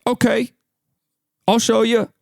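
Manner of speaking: high-pitched mock grandma. Grandma agreeing to help the lady, high grandma voice. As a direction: put on a high old-woman voice. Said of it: "my grandma's like".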